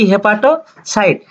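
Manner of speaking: "হেপাটোসাইট" said slowly, syllable by syllable, as a drill. Shown as a demonstration. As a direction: stretch out "হেপাটোসাইট" so the class can repeat it. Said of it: "এটাকে বলা কি?". (ধীরে ধীরে স্পষ্ট উচ্চারণ)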